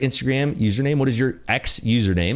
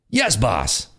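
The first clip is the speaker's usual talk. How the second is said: Russian henchman answering the boss; reply as an obedient underling with a fake Russian accent; cartoon Russian sidekick; mock Russian accent. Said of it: "the worst Putin accent ever".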